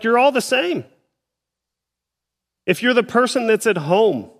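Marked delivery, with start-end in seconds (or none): 0.0-0.8 pitched much higher, insistent; a hint of Paul cutting everyone down; emphatic Paul. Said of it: "Paul's like".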